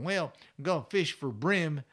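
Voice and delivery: imitated Southern accent of a fishing buddy. Fly fisherman telling his plan, Southern accent. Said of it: "with that Southern accent".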